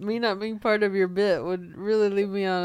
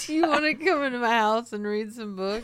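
lightly voiced dreamy poet; a hint of a suave poet inviting; 2 semitones higher, faster than usual. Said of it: "You look like a poet".

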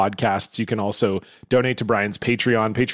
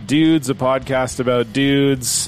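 lightly voiced, listless imitation of Brian's intro; a hint of a bored host introducing his own show, slowly; unexcited intro impression; slower than usual. Host mimics Brian's unexcited podcast intro, mildly bored and slow. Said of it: "Brian is very unexcited about introducing his own pod. So I tried to tap into that".

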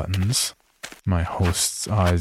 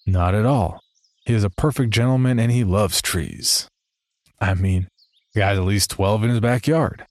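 slightly sarcastic. Retold or imitated. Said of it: "only slightly sarcastically".

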